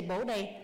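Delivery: "Bo đây" said as a clear teaching model; model correct response. Shown as a demonstration. Host correcting a volunteer at roll call, model pronunciation of "Bo đây". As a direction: show them how to say "Bo đây". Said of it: "Oh, no, you say".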